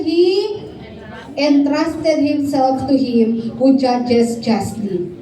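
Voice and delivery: slow, deliberate Bible reading; measured sermon scripture read. Acted. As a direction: read each phrase of the verse slowly. Pastor reads Bible verse aloud.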